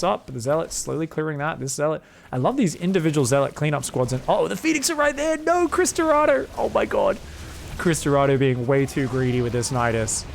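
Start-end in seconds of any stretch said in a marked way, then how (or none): 4.3-7.2 exasperated outcry. Real, not acted. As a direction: cry out at the greedy play. Player making greedy mistake.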